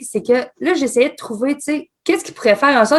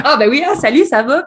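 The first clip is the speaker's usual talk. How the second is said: a laughing, pitched-up hello to a stranger; laughing greeting; 4 semitones higher, 6 dB louder than usual. Retold or imitated. Retold greeting a viewer, laughing.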